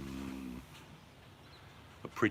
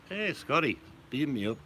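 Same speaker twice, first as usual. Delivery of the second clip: high, louder mock hail; playful calling out; 9 semitones higher, 4 dB louder than usual. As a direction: call up to Scotty in jest. Calling out a film catchphrase.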